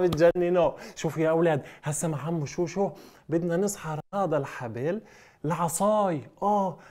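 usual speaking voice

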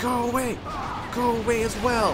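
shouting. Real, not acted. Shouting at enemies.

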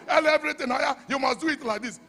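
loud mock instruction from a know-it-all; bossy adviser. Preacher mocking a bossy guide, shouted high. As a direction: shout it like someone bossing you.

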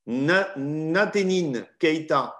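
a slow, careful restart on Natenine Keita; careful name pronunciation. Real, not acted. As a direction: say Natenine Keita slowly, syllable by syllable. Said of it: "belle prononciation".

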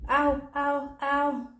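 short, high little howls; babies' mock shriek. A narrator's reading. Baby bears copy Little Bear's howl, mock shrieking. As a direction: yelp three times, high and lightly. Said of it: "shrieked the babies".

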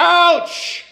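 sharp high ouch of pain; high yelp. Real, not acted. Husband slapped by partner yelps high ouch.

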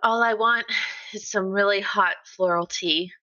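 sweet, gentle request to friends; sweetly. Acted. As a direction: ask kindly, like talking to a close friend. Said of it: "she says it very sweetly when she's talking to her friends".

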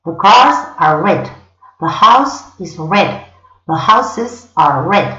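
slow, careful read, each word apart; slow model sentences; slow English demo. Shown as a demonstration. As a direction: model the sentences slowly for learners. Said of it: "En inglés siempre es igual".

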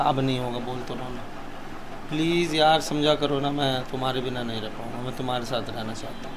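low, softening appeal; tender pleading. Real, not acted. Man begging partner to stay with him, tender pleading.

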